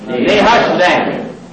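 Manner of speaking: Nehushtan stretched very slowly, ne-HUSH-tan. Shown as a demonstration. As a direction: lead the crowd through Nehushtan slowly. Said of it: "Say it".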